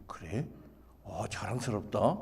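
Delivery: low, soft approval; accepting father. Acted. Dad telling his son he is proud, softly supportive.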